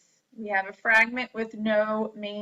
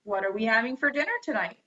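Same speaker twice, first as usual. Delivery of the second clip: asking question; much faster than usual. Shown as a demonstration. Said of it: "direct question".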